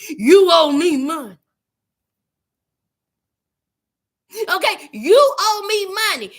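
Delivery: loud menacing debt collector; retold threat. Caller threatening Chance over money owed, loud menace.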